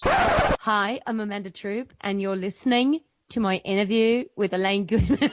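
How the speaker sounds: put-on another try at an Australian accent, still sounding British; a struggling Australian accent that gives up at the end. Podcaster retries the intro in an Australian accent. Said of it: "I can't do it anymore".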